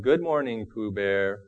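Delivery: lightly voiced, mildly mopey Eeyore; a touch of Eeyore's gloom on "Good morning"; understated gloomy donkey greeting. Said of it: "said Eeyore gloomily".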